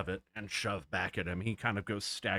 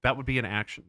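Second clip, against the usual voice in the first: mock stern; 2 semitones higher, 5 dB louder, faster than usual. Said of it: "No, I'm just kidding".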